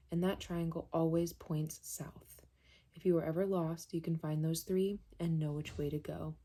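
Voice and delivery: measured, even read-aloud of a book passage. Acted. Reader sharing an author's note with viewers, measured reading aloud. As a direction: read it out steadily with short phrase pauses.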